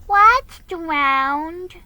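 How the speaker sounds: put-on high, loud small boy asking; a small boy's startled question; little boy voice. A narrator's reading. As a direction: pipe it up like a puzzled little boy. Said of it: "asked William".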